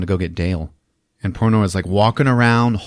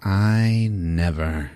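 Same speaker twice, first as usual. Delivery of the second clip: slow, stretched-out monster voice; affronted monster; 3 semitones lower, 3 dB quieter, much slower than usual. Acted. Monster reacting to a missed shot, slow affronted voice. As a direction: draw it out like an offended giant. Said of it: "The great god porno was like".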